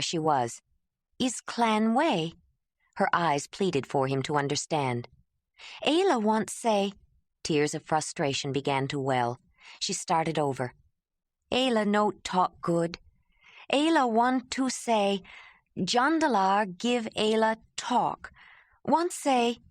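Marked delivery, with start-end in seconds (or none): 1.2-2.3 slow, halting broken speech, a touch raised; halting Ayla. Acted. Ayla kneeling, asking Jondalar to let her speak, halting. 5.9-6.9 halting Ayla. Acted. Ayla kneeling, asking Jondalar to let her speak, halting. Ayla's broken speech. 11.5-19.6 slow broken speech, raised with frustration; pleading Ayla. Acted. Ayla struggling to thank Jondalar, frustrated and pleading.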